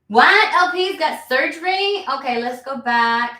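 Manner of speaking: high, loud startled what; surprised. Real, not acted. Streamer reacting to viewer's surgery, high surprised. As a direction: react to shocking chat news.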